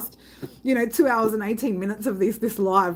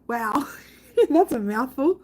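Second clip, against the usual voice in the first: laughing; 4 semitones higher, slower than usual. Real, not acted. Streamer reacting to a long band name, laughing.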